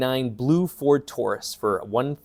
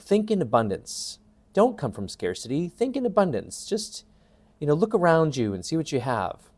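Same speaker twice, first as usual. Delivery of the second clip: lightly mocked advice-giver, pitch swinging higher; glib self-help advice; 4 semitones higher than usual. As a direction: parrot easy advice in a lilting, higher voice.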